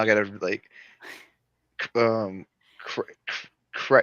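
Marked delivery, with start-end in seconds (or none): 1.8-4.0 stuttering on the first sound; stuck on the c sound. Real, not acted. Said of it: "my stutters now wants to come out".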